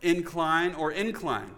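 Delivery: "Incline" first with stress on IN, then "incline" with stress on CLINE; stress contrast. Shown as a demonstration. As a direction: noun then verb. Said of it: "put a different emphasis on the, on a different syllable".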